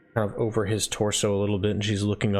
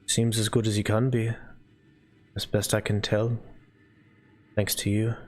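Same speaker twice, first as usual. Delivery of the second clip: subdued non-player character, lightly acted; lightly voiced estate owner. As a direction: answer a worried visitor in light character.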